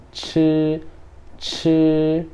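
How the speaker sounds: chi held long on a level tone; drawn-out chi, tongue a little rolled; teeth-together chi. Shown as a demonstration. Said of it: "juntar os dentes e você vai enrolar um pouco a língua".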